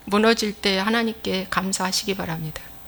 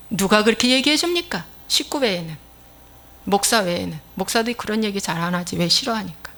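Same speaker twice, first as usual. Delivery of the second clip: normal talking voice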